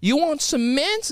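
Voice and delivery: high, slow, sweet sing-out to the grandkids; grandma offering mints. Acted. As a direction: call out slowly and high, like grandma offering candy.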